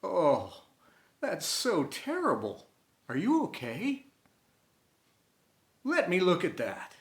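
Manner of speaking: mildly voiced tender mother; soothing mother. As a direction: coo over a child's scraped knee. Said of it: "whisper in your ear".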